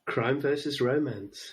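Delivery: CRIME VERSUS ROMANCE drawn out slowly; slow repeat. Real, not acted. Host repeating a quick-fire question the guest didn't catch, slow "Crime versus romance". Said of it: "What was that?".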